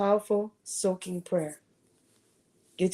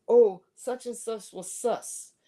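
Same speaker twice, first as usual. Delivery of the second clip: mock slang reader; 3 semitones higher, slower than usual. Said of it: "It'll say".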